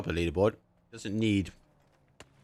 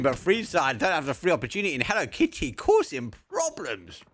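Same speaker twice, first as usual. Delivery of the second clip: high, loud frantic play-by-play; excited; 7 semitones higher, 3 dB louder than usual. Real, not acted. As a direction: hype up the fight call. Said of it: "I'm sorry, I'm crazy".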